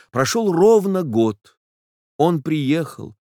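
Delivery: high, slow, trembling heroine's voice; agitated young woman. Acted. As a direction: let her voice climb toward tears. Nastenka's voice, rising agitation.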